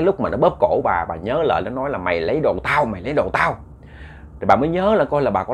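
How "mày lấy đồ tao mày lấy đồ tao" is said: remembered ghost voice. Retold or imitated. Woman recalls the ghost's words.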